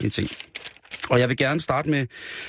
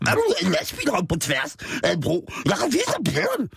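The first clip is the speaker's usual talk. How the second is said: high character voice; 8 semitones higher than usual. Acted. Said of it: "tilføjede Bodil".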